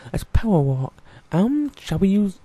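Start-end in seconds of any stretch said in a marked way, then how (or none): 0.1-0.9 louder. Real, not acted.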